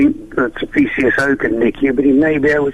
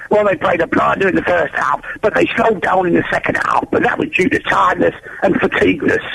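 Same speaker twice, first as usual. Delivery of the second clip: bad Scouse accent. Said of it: "I can't do a very good Scouse accent".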